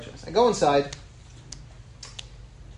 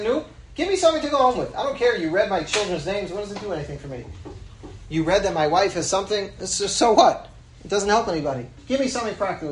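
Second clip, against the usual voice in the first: higher, fast exasperated pleading; exasperated demand; 4 semitones higher than usual. Retold or imitated. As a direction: push him for a real answer, exasperated. Demanding a practical answer from rabbi.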